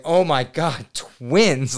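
high and loud with a laugh; laughing shock. Retold or imitated. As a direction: gasp it out laughing in disbelief. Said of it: "I was like".

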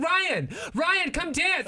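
wife calling husband to dance, hammed-up high call; mock wife calling out. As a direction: call him down like she's having a party. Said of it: "She's like".

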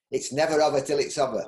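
broad Yorkshire saying; Yorkshire accent. Shown as a demonstration. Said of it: "in my Yorkshire accent".

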